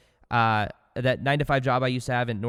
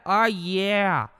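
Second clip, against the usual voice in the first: hyped catchphrase; 6 semitones higher than usual. Shown as a demonstration. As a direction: lighten up and belt it. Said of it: "Just say it over and over again".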